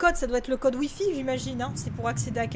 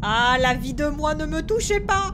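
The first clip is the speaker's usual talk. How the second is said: mock wail; 5 dB louder than usual. Repeating plea in mock voice.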